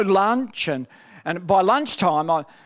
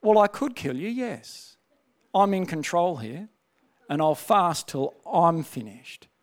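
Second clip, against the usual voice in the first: softer, lower, quietly in command; calm spirit voice; 3 semitones lower, 4 dB quieter than usual. Retold or imitated. His spirit overruling the dying body, soft calm authority. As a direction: answer coolly, you are in charge. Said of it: "you know what my spirits were saying".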